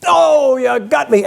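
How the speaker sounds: slow, hammed-up death cry; milk the old Western death line; cowboy hit by a bullet, overplayed and slow; mock dying cowboy. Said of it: "and the guy goes".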